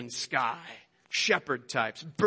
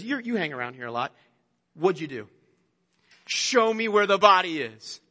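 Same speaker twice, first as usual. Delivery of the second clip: accusing; 4 dB louder than usual. Retold or imitated. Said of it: "you pick up the accusation here".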